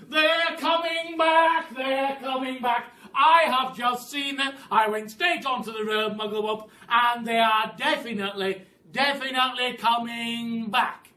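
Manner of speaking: high, loud panicked scream. A narrator's reading. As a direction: scream the alarm as you swoop in.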